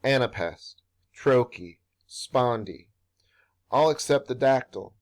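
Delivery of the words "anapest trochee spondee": "Anapest", "trochee", "spondy" set apart, each in its own stress pattern; stresses imitating feet. Shown as a demonstration. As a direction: list "Anapest", "trochee", "spondy" deliberately, a pause after each. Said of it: "tend to imitate the syllabic stresses".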